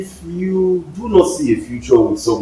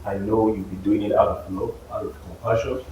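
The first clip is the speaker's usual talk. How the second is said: softer, lower, tactful pleading; gentle let-down; 7 semitones lower, 10 dB quieter than usual. Acted. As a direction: let them down softly and kindly. Voicing a gentle let-down to a supporter.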